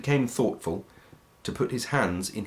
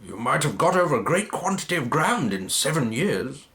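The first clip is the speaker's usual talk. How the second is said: lightly voiced Scrooge; 5 semitones higher than usual. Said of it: "said Scrooge".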